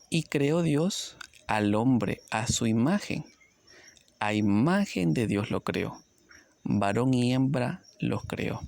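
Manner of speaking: slow, measured Bible reading; scripture reading. Acted. Preacher slowly reading Genesis to the congregation. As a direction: read the verse slowly and solemnly.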